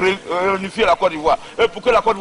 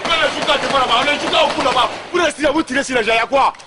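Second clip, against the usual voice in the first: agitated shouting; 4 semitones higher than usual. Real, not acted. Commander shouting amid gunfire.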